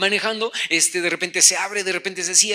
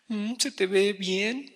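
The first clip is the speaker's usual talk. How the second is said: sarcastic compliment; 6 dB quieter, slower than usual. Retold or imitated. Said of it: "con ese tono de voz".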